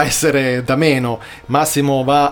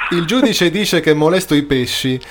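stifled giggles; 3 semitones higher than usual. Real, not acted. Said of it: "Sii serio".

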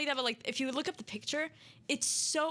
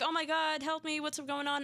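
slightly raised pitch, imitating panicked cries for help; half-hearted retold panic; mild mock scream; 4 semitones higher than usual. Partygoers crying out as Jeff attacks, mock screaming. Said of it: "everyone's screaming".

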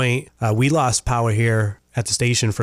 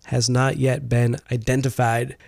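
higher-pitched radio news delivery; news read; 4 semitones higher than usual. Real, not acted. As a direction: read out a local crime report. Reads the news.

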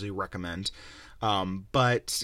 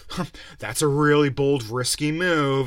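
mock judge; 5 semitones higher, 8 dB louder than usual. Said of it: "And it's like".

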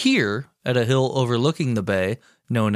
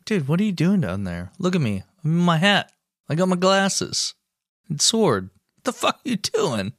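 mock Teddy; 6 semitones higher than usual. Voicing Teddy Roosevelt mocking soldiers.

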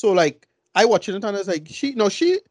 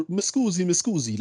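mock Italian accent; 4 dB quieter than usual. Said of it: "it just".

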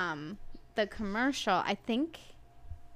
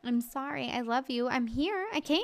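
apologetic pleading; 5 semitones higher than usual. Retold or imitated. Her apology to relatives voiced.

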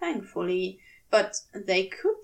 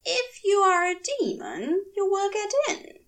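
eerie demon voice; 9 semitones higher than usual. A narrator's reading. Demon voice commanding.

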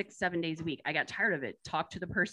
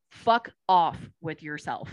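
angry; 6 dB louder, slower than usual. Retold or imitated. Venting at the coworker.

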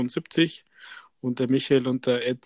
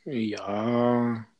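whispering; 3 semitones lower than usual. Real, not acted. Whispered aside.

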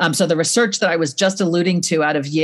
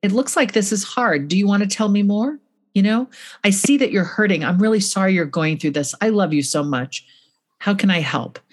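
kind and gentle. Shown as a demonstration. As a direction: reassure a hurting child gently. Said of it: "You say kindly".

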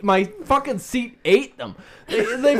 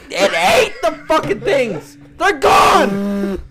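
retold mock yell; 2 semitones higher, 3 dB louder, slower than usual. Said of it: "I'm like".

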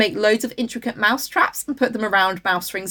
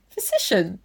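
usual speaking voice

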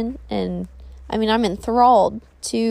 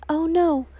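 lightly voiced worried inner voice, higher; a hint of a small, doubting voice; little tiny voice; 5 semitones higher than usual. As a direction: play the nagging thought, lightly pitched up. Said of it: "the little tiny voice saying".

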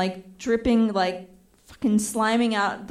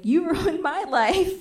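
high, slow laughing echo; amused mocking repeat; laughing mockery; 7 semitones higher than usual. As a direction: toss her words back with a laugh. Mocking her back.

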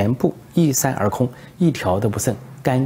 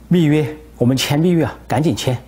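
eager urging; 5 semitones higher than usual. Retold or imitated. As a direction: press him eagerly to sign the deal. Eager minister on the phone.

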